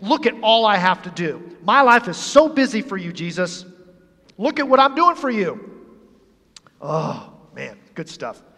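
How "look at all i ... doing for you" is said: mildly frustrated complaint; acted exasperation, rising at the end. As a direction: vent like an overworked host, lightly acted. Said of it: "She's actually getting frustrated".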